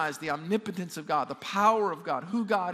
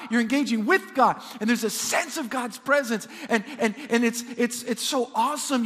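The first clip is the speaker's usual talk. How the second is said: raised, forceful scripture preaching; impassioned preaching; 4 semitones higher, 5 dB louder than usual. Real, not acted. Preacher urging the church to kneel before God, impassioned preaching. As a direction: call the congregation to worship, voice lifted.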